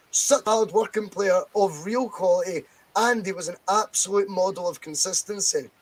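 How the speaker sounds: deliberate read-out of an official statement. Real, not acted. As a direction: read the quote aloud, measured and emphatic. Reads out manager's statement.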